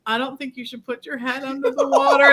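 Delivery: lightly voiced nagging parent; mom voice. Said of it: "in my best mom voice".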